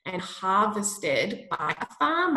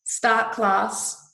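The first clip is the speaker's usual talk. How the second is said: whispering; 5 dB louder than usual. Real, not acted. Voice command to sim system.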